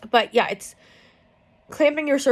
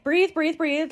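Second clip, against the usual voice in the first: calm coaching; 6 semitones higher, slower than usual. Retold or imitated. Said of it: "she's being much calmer".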